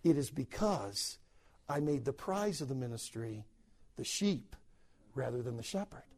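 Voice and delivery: inner thought. Retold or imitated. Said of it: "I thought to myself".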